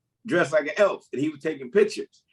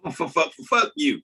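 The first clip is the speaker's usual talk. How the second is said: stuttering. Retold or imitated. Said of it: "he stuttered".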